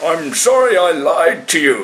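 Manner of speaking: gasping for breath. A drowning monkey apologizes to a dolphin, gasping. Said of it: "he gasped".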